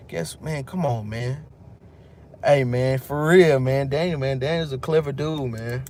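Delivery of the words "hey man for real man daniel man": usual speaking voice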